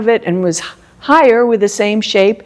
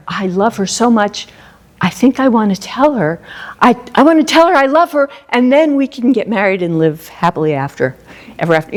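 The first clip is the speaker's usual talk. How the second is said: a lover talking himself into it, rushing on tell her; lovestruck musing; faster than usual. Shown as a demonstration. Teacher acts a smitten suitor working up to a proposal, building eagerly. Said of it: "So you might say".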